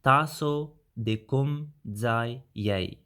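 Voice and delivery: slow and clear for learners; slow careful demo. Shown as a demonstration. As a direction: say "Taso de kum zai yei" slowly, syllable by syllable. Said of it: "Then you can say".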